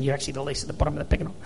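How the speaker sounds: fast, hurried tack-on; rushed aside. Retold or imitated. Jesus to his disciples, a fast hurried aside. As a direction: rattle it off quickly. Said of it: "but go".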